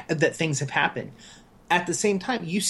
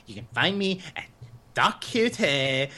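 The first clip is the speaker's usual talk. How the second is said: mock defeated. Co-host teasing the host's sign-off, imitated as defeated. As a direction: drag it out as a hammed-up, defeated sigh. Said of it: "you said so defeated. You're just like".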